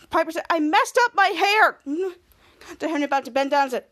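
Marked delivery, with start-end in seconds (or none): 0.5-1.8 slow, higher-pitched wail, lightly acted; upset confession. Piper to her brother about her hair, acted upset. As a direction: own up in childish dismay.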